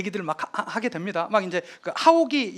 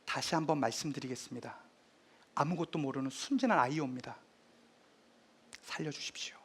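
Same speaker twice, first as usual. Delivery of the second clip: 조용한 버팀; 5 semitones lower, 10 dB quieter than usual. Retold or imitated. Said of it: "세종이 이때 버팅깁니다".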